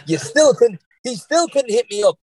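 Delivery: laughing through words. Real, not acted. Recalling the rival on the podcast, talking through real laughter. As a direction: still laughing as he talks.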